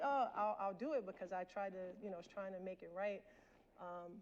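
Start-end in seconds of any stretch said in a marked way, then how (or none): 0.0-1.1 eager. Retold or imitated. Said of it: "And I'm like".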